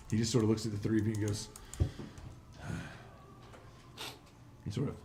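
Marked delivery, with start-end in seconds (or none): 1.5-2.3 long breathy exhale in character; unimpressed gnoll sigh; weary sigh. Acted. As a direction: sigh at the strangers before you. Gnoll looks over the strangers.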